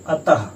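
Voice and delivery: अतः ending in a clear breathy ह; final ha demo. Shown as a demonstration. Teacher models visarga in अतः, breathy final ha. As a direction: let अतः trail off in an audible हा breath. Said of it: "अतः का आप उच्चारण कीजिए".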